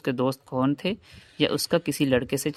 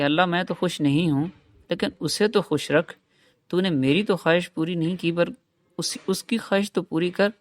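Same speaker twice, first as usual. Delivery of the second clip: pleading prayer; 4 semitones higher than usual. Retold or imitated. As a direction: plead upward as if on your knees. Praying to God for her.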